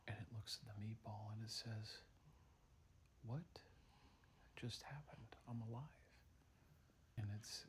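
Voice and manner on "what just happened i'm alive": hushed astonishment. Acted. Milkshake wakes, stunned and scared.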